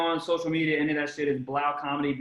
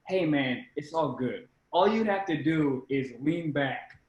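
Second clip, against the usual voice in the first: smooth reassurance; 2 semitones lower, slower than usual. Retold or imitated. Retells photographer's smooth offer.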